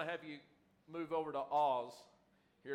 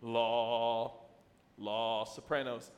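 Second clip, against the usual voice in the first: out of breath; 8 semitones lower, much slower than usual. Real, not acted. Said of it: "let me catch my breath".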